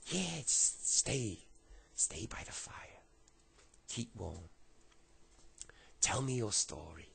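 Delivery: put-on slow, coaxing French accent; rough French accent. Homeless man invites lad to the fire, rough French accent. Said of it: "I can't do a brilliant French accent".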